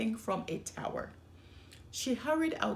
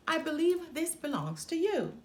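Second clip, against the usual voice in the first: frog voice; 6 semitones higher than usual. Acted. Frog returns ball.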